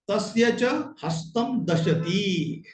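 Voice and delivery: slow, deliberate Sanskrit reading; teacher reading a line for pupils; recitation. Shown as a demonstration. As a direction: lay out each word slowly for the class. Reads Sanskrit story sentence.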